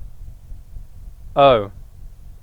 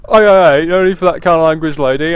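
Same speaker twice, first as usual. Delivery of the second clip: louder pushy protest; 5 dB louder, faster than usual. Acted. Voicing pushy character.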